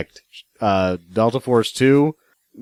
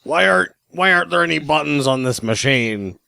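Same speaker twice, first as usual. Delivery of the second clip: higher-pitched imitation of a baffled dad; puzzled dad; 5 semitones higher than usual. Imitating dad slapping the Roku, higher-pitched puzzled complaint. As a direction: lightly mimic your dad's complaining. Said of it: "That's what my dad does".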